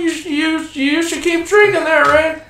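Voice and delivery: put-on high squeaky nervous kid voice; voicing the nervous Morty from Rick and Morty. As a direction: stammer it out like a worried sidekick. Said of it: "Dan does a really good Rick voice".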